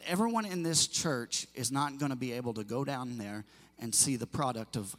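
usual speaking voice

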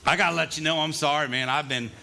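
wired on espresso, rushing out words; jittery caffeine buzz; too much caffeine. Real, not acted. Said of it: "I've had four shots of espresso already this morning".

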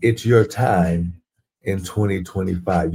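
"It's your time" stretched slowly, landing on "your"; drawn-out preacher slogan; slow slogan repeat. Shown as a demonstration. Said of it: "Can I say that one more again".

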